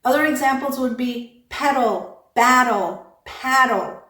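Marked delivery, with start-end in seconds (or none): 1.5-4.0 "pedal, battle, paddle" with a tapped middle; flap before syllabic l. Shown as a demonstration. Teacher listing examples, "pedal, battle, paddle" with flapped middles. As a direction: let "battle" end in an unstressed uhl after a flap. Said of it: "have an unstressed vowel in there".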